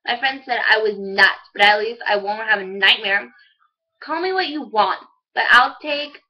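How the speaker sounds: lightly dramatized student monologue; monologue recital. Acted. Student performing a middle school monologue for viewers, lightly dramatized. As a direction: recite it as a teen's storytelling monologue.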